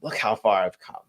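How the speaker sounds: soft, hushed grateful reflection; quiet gratitude. Retold or imitated. Sober man thanking his past self, soft hushed gratitude. Grateful inner voice looking back.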